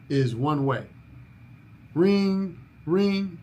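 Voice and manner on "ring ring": mock phone ring. Shown as a demonstration. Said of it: "the only way to answer the phone".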